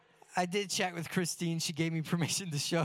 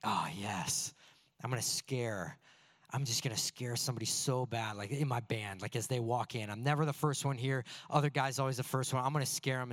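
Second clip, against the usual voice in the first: mock villain scheming; 5 semitones lower than usual. Plotting a prank, inner voice.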